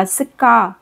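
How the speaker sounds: का with a long drawn-out aa vowel; long aa demo; stretched aa. Shown as a demonstration. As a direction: hold the aa in का. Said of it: "खींच के बोला जाएगा".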